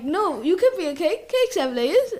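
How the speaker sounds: a hint of an eager talking donkey. Retelling Shrek's onion scene, lightly imitated Donkey. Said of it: "And then Donkey was like".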